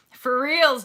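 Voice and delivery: really mean it this time; emphatic for reals. Acted. Stressing the point to her viewers, loud and emphatic.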